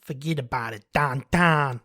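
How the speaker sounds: put-on lightly done Long Island accent; a hint of a Long Island tough guy. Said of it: "trying to perfect my Long Island accent".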